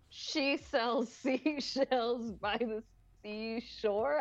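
slow, careful, breaking into a laugh; tongue-twister struggle. Shown as a demonstration. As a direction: fight through each word slowly. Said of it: "I cannot actually ever do".

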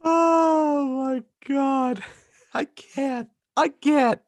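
very high, laughing squeal; real helpless laughter. Real, not acted. Unable to recover from co-host's joke, helpless laughter. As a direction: barely get words out for laughing.

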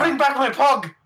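put-on high, loud would-be Mexican accent drifting Indian; botched Indian-sounding accent. Friend plays sombrero-wearing Neil demanding his Pog, Indian-sounding accent. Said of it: "I don't know why you're Indian".

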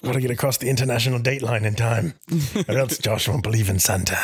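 lightly voiced British action hero; a hint of movie-trailer tough guy; Jason Statham. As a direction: put on a mock action-film hero's British voice. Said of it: "My name is Jason Statham".

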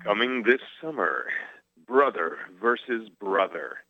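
booming movie trailer read. Pretend. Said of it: "Do you want me to do it in my movie voice?".

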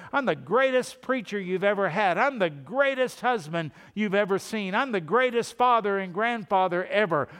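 loud, high, puffed-up bragging at God; boastful mock prayer. Preacher mocking a boastful believer praying, loud and hammed-up. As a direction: ham up a proud man showing off in prayer. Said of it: "It's not that I come and say".

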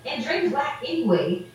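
flat put-down, falling at the end; dismissive retort. Retold or imitated. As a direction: toss off the dismissal of a rapper as plain fact. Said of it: "I was like".

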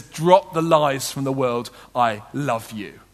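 slow, low and gentle, the voice of God; tender voice of God. Acted. Preacher voicing God to the congregation, slow and tender.

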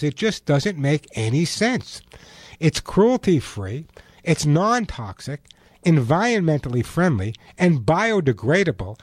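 ad read. Acted. Host reads his own product ad.

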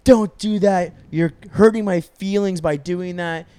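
high, loud mock whine; hurt boyfriend. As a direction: imitate a wounded boyfriend pleading, hammed up.

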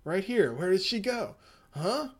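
a hint of a lost, rambling survivor; confused castaway man. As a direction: play a dazed man looking for the girl. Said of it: "the guy's like".

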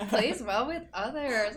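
laughing while saying it. Real, not acted. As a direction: repeat it through a laugh. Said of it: "I like that".

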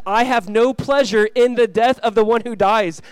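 slow, loud scripture proclamation; solemn declaration. Acted. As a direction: proclaim it deliberately, word by word. Voices God's declaration from scripture.

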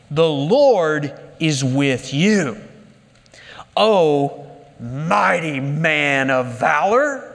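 slow, low, weighty pronouncement; solemn angel. Acted. Angel greets cowering Gideon as mighty man, slow solemn pronouncement. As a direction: intone it slowly and deep, with long pauses.

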